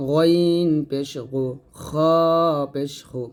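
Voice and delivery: গইন and খ heavy and rasped from the throat's end; thick throat-end letters. Shown as a demonstration. Teacher models ghain and kha, heavy গইন and খ. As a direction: round and thicken গইন পেশ গু, খ পেশ হু. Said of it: "গলার শেষ থেকে মোটা করে".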